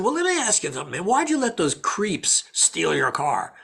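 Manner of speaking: lightly voiced drunk, drawing out the question; half-drunk fan. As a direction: play a tipsy guy confronting an actor. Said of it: "like, half drunk".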